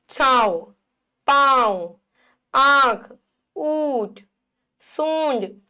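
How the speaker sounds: छाव, पांव, आंख, ऊंट, सूंड with long vowels through nose and throat; nasalised vowels. Shown as a demonstration. Teacher giving chandrabindu examples, nasal vowels in छाव, पांव, आंख, ऊंट, सूंड. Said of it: "उच्चारण नाक और गले दोनों से होता है".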